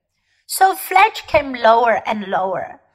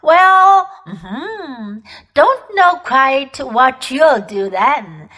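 cheeks stuffed full; slower than usual. Acted. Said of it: "still with his mouth full".

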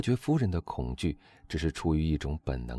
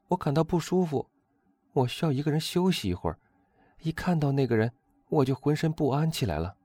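high-pitched, agitated noblewoman; uneasy countess; 10 semitones higher than usual. A narrator's reading. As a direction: voice an unsettled countess, pitched well up.

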